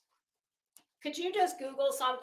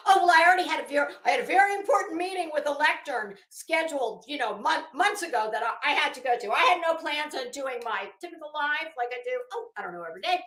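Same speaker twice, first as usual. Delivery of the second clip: higher, fast, sing-song mockery of her excuses; mocking impression; 5 semitones higher, much faster than usual. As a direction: rattle it off like a dismissive, self-important woman. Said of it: "it's gonna be".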